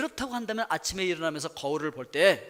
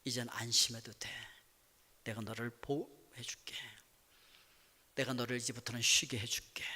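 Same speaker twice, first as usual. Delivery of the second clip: soft, low, hushed reassurance, sinking to a whisper; the Lord consoles his tired child in a low soft murmur; tender comforting Lord; 7 semitones lower, 7 dB quieter than usual. Pretend. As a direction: comfort the weary one gently, almost whispering. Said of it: "주님께서 그렇게 말씀하십니다".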